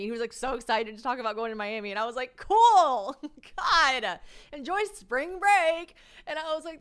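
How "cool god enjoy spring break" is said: high, loud, drawn-out send-off; mock enthusiasm. Woman reacting to student's Miami trip, high mock enthusiasm. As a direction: cheer him on far too hard. Acting reply to his Miami plans.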